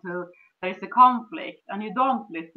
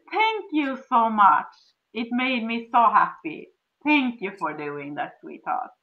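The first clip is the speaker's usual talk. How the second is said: grateful thanks. Shown as a demonstration. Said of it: "thank him and say, appreciate him".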